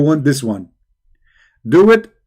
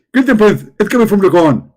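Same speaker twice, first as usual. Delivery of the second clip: high, loud preachy mimic; Zakir Naik; 3 semitones higher, 4 dB louder than usual. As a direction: lecture like an excited preacher. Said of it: "Zakir Naik".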